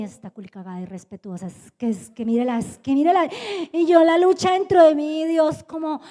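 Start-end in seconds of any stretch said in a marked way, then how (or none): 0.0-3.3 inner exasperation. Retold or imitated. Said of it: "Y yo dentro de mí".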